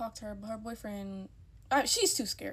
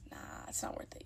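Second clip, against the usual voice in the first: whispered dismissal; 7 dB quieter, faster than usual. Real, not acted. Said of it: "whispered aside".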